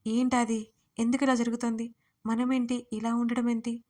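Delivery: ordinary delivery, nothing marked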